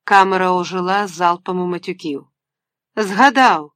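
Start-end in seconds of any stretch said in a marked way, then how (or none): 2.9-3.7 a sudden cry of remembering, a touch louder; shouted out. Acted. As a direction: call it out through the door hatch. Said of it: "вигукнув у вічко".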